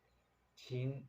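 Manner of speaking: 请 stretched long and slow; slow teaching 请; slow model word. Shown as a demonstration. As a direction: hold out 请 for the class to copy.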